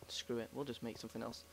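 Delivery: breathy whisper with a sigh. Real, not acted. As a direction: drop to a whisper. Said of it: "Sorry if I was talking a bit low then".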